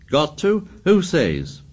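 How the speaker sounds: high scornful sneer. A narrator's reading. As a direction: throw back the challenge. Jack's scornful retort.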